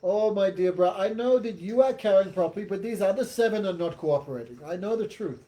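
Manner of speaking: lightly acted king's mock reassurance; emphatic, needling false sympathy; sarcastic. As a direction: pretend to take the servant's side, mockingly. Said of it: "many sarcastic words, disrespectful words he spoke".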